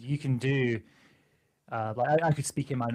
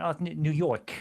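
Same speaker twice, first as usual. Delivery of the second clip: Bronx accent; 5 semitones higher, 3 dB louder than usual. Shown as a demonstration. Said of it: "bit nasal trying to do it".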